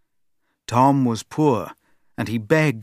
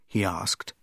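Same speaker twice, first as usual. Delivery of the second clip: usual speaking voice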